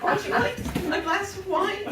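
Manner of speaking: high, slow mock-weepy waitress; wailing table service, played for laughs; crying. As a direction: take an order through exaggerated tears. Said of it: "cannot stop crying".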